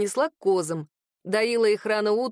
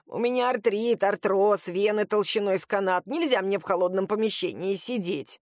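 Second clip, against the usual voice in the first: coaxing grandma. Acted. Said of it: "стала его уговаривать".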